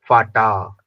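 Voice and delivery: फाटा with a forceful टा; hard टा, wrong. Shown as a demonstration. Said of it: "ऐसे नहीं".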